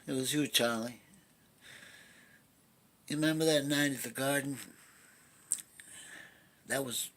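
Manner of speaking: lightly voiced washed-up boxer reproaching his brother; Terry Malloy. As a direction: play it as an understated, wounded confession to your brother. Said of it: "Went something like this".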